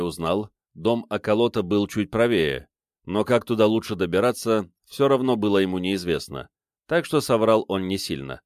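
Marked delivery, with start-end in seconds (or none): none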